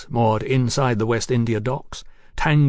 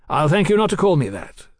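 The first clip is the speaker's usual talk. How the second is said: higher-pitched, mildly sharp objection; sharp rebuke; 5 semitones higher, 4 dB louder than usual. A narrator's reading. Marquis objecting to being called lordship, mildly sharp. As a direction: cut him off with offended firmness. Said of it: "the Marquis said sharply".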